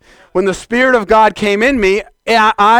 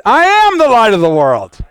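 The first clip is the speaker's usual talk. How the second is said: firm, slightly raised congregational declaration; led declaration; 4 semitones higher, 5 dB louder than usual. Shown as a demonstration. Preacher leading the saints in repeating, firm declaration.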